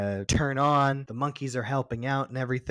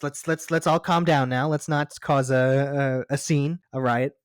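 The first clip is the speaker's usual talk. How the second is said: urgent calming; 3 semitones higher, 6 dB louder than usual. Retold or imitated. Humans calming armed tense scene.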